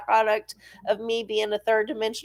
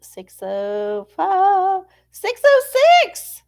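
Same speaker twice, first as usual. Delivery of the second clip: slow, drawn-out numbers; slow reading; 8 semitones higher, 6 dB louder, slower than usual. Real, not acted. Reading the page numbers while flipping, slowly. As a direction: read it out slowly. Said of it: "reading page numbers slowly".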